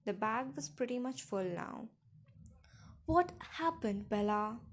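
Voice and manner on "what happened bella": raised, urgent call; shouting through a door. A narrator's reading. Father pounding on the bedroom door, shouting. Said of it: "Charlie shouted through the door".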